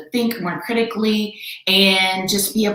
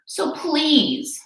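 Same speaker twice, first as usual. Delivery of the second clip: Horton pleading; 8 semitones higher than usual. Acted. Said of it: "Horton said".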